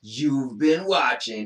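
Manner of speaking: slow, paused delivery; pause, then say it slowly. Shown as a demonstration. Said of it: "And then you pause".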